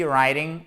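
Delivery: "writing" said with no w sound; "writing" starting straight on the r; silent W. Shown as a demonstration. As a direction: stress the first syllable of "writing", W silent. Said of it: "on prononce pas le W".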